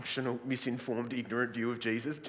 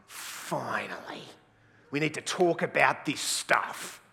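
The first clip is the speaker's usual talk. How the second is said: relieved group; slower than usual. Acted. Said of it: "There's one group who are going".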